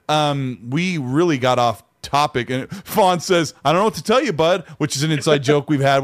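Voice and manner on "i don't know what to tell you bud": mock condescension, pitched up; lightly patronize your buddy; condescending. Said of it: "our really condescending statement we use".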